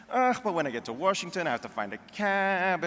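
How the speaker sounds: Jewish mother. Retold or imitated. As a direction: whine it like a reluctant Jewish mother. Mother voiced in a joke.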